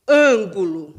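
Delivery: "Ângulo" with "Ân" loud and held, then the rest; stressed first syllable. Shown as a demonstration. Teacher showing the antepenultimate syllable, loud stressed "Ân". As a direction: push the opening "Ân" of "Ângulo". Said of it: "penúltima e antepenúltima".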